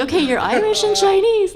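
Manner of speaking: high, bright sing-song; mom announcing cheerfully. Retold or imitated. Mom telling her daughter her heritage, high sing-song. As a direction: pitch it way up like telling a small child. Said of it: "so I'm like".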